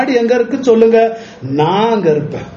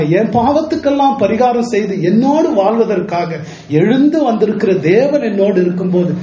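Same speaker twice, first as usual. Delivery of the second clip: ordinary talk, nothing marked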